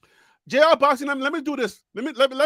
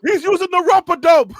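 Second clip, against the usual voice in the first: laughing; 6 semitones higher, 3 dB louder than usual. Real, not acted. Laughing at guest dodging.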